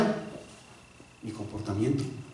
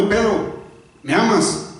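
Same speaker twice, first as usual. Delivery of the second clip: gentle voice of Jesus; 5 semitones higher, slower than usual. Acted. Preacher voices Jesus asking again.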